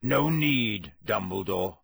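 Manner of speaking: growled, falling character voice; wheezy growl. A narrator's reading. Moody limping up to Dumbledore, wheezy growl. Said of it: "said a wheezy growl".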